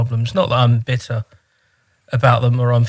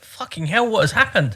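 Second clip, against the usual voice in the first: retold shock; 9 semitones higher than usual. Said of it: "And I was like".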